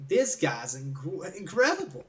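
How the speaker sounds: slow start, pitch jumping up on "incredible"; retold amazement. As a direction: marvel at someone's talent in retelling. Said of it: "I was amazed".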